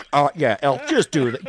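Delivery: loud booth intercom order; director from above. Acted. Director who wants no part of it, loud booth voice. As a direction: call it down loudly like the control room. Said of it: "voices from above".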